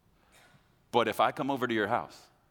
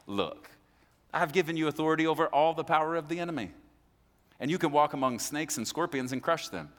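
matter-of-fact Jesus; 5 semitones higher than usual. Retold or imitated. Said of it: "He's not screaming, hooping, and hollering".

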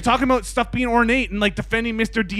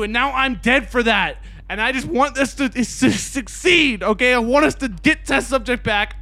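angry rant. Real, not acted. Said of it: "why I'm so angry".

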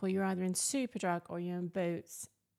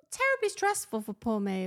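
mock self-pity; 6 dB louder than usual. Mock self-pity, then denied.

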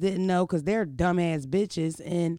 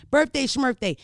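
playful dismissal; 6 semitones higher, 8 dB louder than usual. Real, not acted. Dismissing birthday date playfully.

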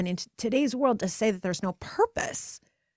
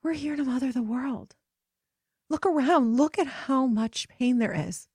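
higher, rising urgency through each look around; impassioned plea; 5 semitones higher, 3 dB louder than usual. Retold or imitated. Friend urging the women to see the world's pain, rising urgency. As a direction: plead with growing fervor. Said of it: "My friend Natalie said".

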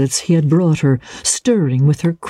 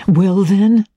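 pressing question, pitched higher; raised, insistent prompt; 6 semitones higher, 3 dB louder than usual. A narrator's reading. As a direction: press for an answer. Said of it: "he insisted".

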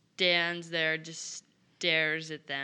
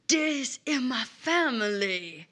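slow, raised character voice; earnest Boudreaux; 5 semitones higher, slower than usual. Acted. Player as Boudreaux tells Willow about family, earnest. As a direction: plead slowly, pitched up.

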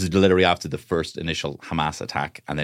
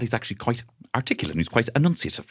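Paul Mescal; 6 semitones higher than usual. Acted. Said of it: "He doesn't talk like that".

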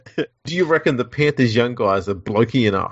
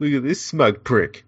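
mock promo voiceover; 3 semitones higher, slower than usual. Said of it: "voiceovers for the pregame things".

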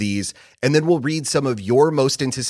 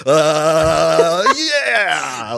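excited yelp; 5 semitones higher, 5 dB louder than usual. Retold or imitated. Imitating wife's joyous reaction.

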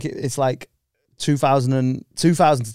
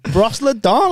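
mock French accent, raised pitch; 7 semitones higher, 3 dB louder, slower than usual. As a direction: say it like a hammy Frenchman. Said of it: "throw it in a bit of French".

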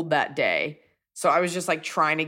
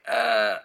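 winded groan; 5 semitones higher than usual. Retold or imitated. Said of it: "I'm just like".

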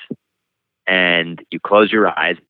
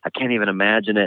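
mock sympathy, sighed out lightly; pitying sigh; 3 semitones higher, 4 dB quieter than usual. Therapists hearing of his loss, imitated pitying sigh. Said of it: "pitying. They, they would sigh".

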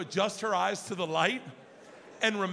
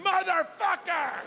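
high, slow, drawn-out curse; furious curse; 8 semitones higher, slower than usual. Retold or imitated. Dad yanking a stuck door, high drawn-out curse. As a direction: curse the door that won't open.

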